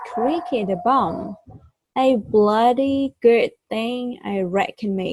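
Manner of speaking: a light go at an Australian accent; attempted Australian accent. Shown as a demonstration. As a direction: try on an Australian accent, tentatively. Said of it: "my attempt to offend in Australian accent".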